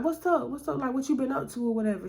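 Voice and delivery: a lightly voiced lurking guy; the man's reply. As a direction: keep it casual but a bit too eager. The man answers Tiffany.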